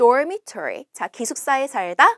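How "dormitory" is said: dormitory, first syllable dor stressed. Practicing English vocabulary together, stress on first syllable dor. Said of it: "door에 강세를 줘주시고 dormitory라고 해주세요".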